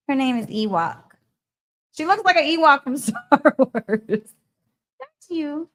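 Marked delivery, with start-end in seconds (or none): 1.9-5.7 lightly raised cooing voice for the dog; a touch of puppy talk, laughing; sweet higher doggy-talk voice. Real, not acted. Showing the dog, talking to it.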